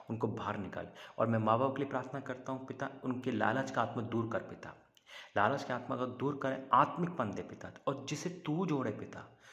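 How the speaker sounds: earnest prayer building in intensity; fervent prayer. Real, not acted. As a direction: plead with God, pressing each petition. Leads a prayer after preaching. (जोश भरी प्रार्थना)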